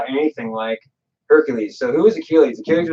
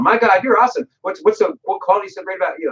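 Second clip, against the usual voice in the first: mock admiration; 8 semitones higher than usual. Admiring people voiced in retelling.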